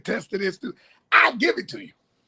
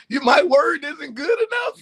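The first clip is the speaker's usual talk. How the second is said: slow, higher, laughing protest; laughing mock offence; 4 semitones higher, 4 dB louder, slower than usual. Real, not acted. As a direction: act insulted while cracking up. Laughing at being asked for proof.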